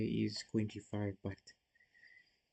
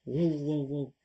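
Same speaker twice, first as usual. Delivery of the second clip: louder, higher startled whoa; surprised whoa; 4 semitones higher, 4 dB louder, slower than usual. Real, not acted. Streamer spotting a sudden rook sacrifice, startled. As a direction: caught off guard by the move.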